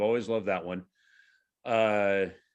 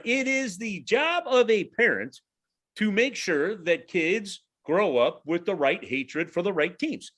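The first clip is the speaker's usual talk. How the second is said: mock-solemn sermon; 6 semitones higher, slower than usual. Mock-solemn lecture on raising kids.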